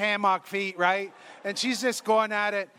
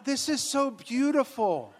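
higher, hammed-up tearful gushing; mock tearful; 5 semitones higher than usual. Priest moved during pedicure, mock tearful. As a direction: gush as if overcome by tears. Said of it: "And now I'm crying".

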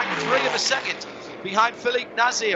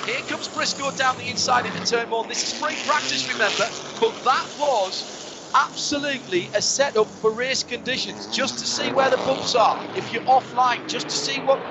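live race play-by-play; motorsport commentator; 3 semitones higher than usual. Acted. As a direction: call the last lap as it unfolds. Live play-by-play of final lap.

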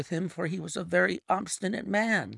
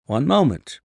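Holmes interposing; 2 semitones lower, 8 dB louder than usual. A narrator's reading. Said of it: "Holmes interposed".

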